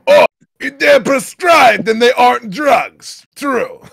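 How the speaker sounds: high, loud put-on voice; mock sarcastic shout. Answering about prescribed pills, high sarcastic mock shout. Acted chat reply.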